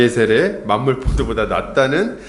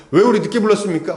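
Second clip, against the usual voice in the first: mild complaint; 6 semitones higher, 3 dB louder, faster than usual. Retold or imitated. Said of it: "그냥 가가지고".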